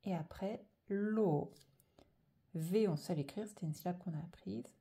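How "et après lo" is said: V held long, then lo held long; drawn-out syllables. Shown as a demonstration. Teacher saying which syllable comes first, drawn out. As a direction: slowly stretch each syllable, V and lo. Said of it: "je dois d'abord écrire".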